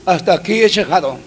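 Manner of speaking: soft, broken plea to the Lord; a pastor retelling his whispered, tearful prayer on the mountain. Retold or imitated. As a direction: pray quietly as if near tears. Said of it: "llorando como un niño".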